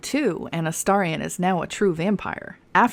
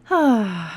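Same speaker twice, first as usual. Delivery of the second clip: fanning oneself; 3 semitones higher than usual. Real, not acted. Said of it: "let me fan myself".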